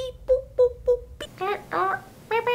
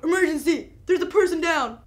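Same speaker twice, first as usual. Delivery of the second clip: urgent shouting; 5 semitones higher, 5 dB louder than usual. Acted. Acting emergency call.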